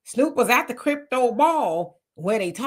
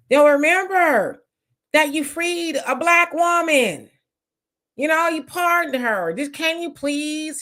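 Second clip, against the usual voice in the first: pleading with Biden; 3 semitones higher than usual. Retold or imitated. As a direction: beg him sweetly for a favor. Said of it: "she could have said to Biden".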